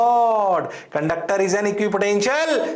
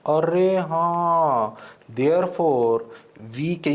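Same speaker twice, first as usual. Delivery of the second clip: usual speaking voice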